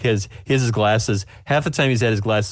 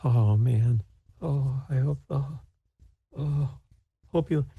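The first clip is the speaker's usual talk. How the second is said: higher, soft nervous fretting; 6 semitones higher, 4 dB quieter, slower than usual. Acted. Baker nervously presents her pecan pie, soft fretting. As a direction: wring the words out anxiously. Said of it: "like, nervously".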